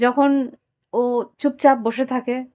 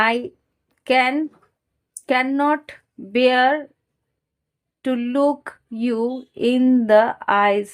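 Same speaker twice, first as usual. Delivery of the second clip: very slow, word-by-word reading; card read aloud; much slower than usual. Real, not acted. Tarot reader voicing a partner's confession, slow halting read-out. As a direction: read it out haltingly with long pauses.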